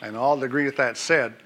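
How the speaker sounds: earnest church prayer, rising and falling; fervent prayer. Acted. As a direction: pray it out over the congregation. Pastor prays over teachers.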